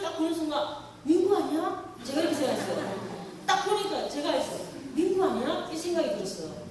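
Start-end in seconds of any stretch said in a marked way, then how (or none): 1.0-1.9 startled recognition. Retold or imitated. Recognizing the son at window. 4.9-5.7 startled recognition. Retold or imitated. Recognizing the son again.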